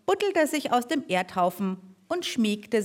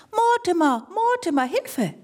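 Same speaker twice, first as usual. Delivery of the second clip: high, loud panicked cry for help; calling for help; 9 semitones higher, 4 dB louder than usual. Acted. Small mole crying out for help from its burrow. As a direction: squeak out a desperate call for help.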